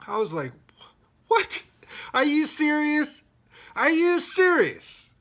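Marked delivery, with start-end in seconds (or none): 1.3-5.1 high, loud incredulous cry; shocked and indignant, voice jumping up; loud, high-pitched outrage at the leak; outraged disbelief. Retold or imitated. Outraged reaction to data theft.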